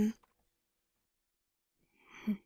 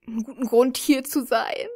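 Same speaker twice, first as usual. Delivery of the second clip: mock anguish; 2 semitones higher, 6 dB louder than usual. Mock anguish about the game plot.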